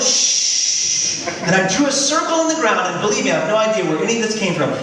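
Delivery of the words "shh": breathy whispered shh; kids shushing. Retold or imitated. Kids copying the hush, whispered shh. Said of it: "they all went".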